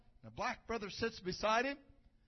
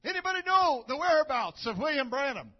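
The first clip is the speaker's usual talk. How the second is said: calling out to crowd; 7 dB louder than usual. Retold or imitated. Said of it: "he just sinks in his seat".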